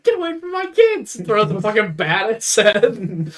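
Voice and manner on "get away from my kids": high mock-furious shout; angry dad yell. Dad defending his kids from intruders, angry yell. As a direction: imitate a protective father yelling.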